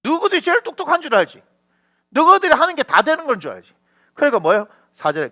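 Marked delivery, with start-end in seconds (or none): 0.0-3.7 sarcastic, somewhat higher jab; mock-taunting the fools. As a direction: needle them for thinking they're clever. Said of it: "이렇게 얘기하는 거예요".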